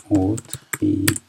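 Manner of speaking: اتریشین said again slowly and drawn out; slow repeat. Shown as a demonstration. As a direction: stretch out اتریشین so students catch it. (اتریشین را آهسته و کشیده تکرار کن)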